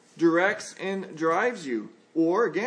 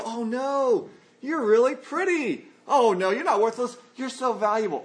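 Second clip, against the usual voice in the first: higher-pitched mock gushing; acted "oh no" protest, pitched up; gushing reassurance; 4 semitones higher than usual. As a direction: reassure a friend with lifted, effusive pitch. Acting friend's gushing reassurance.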